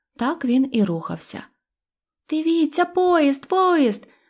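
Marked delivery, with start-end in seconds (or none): 2.3-4.1 thrilled, delighted, high-pitched shout of excitement. A girl seeing a train for the first time, a delighted shout. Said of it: "захоплено закричала Кнопочка".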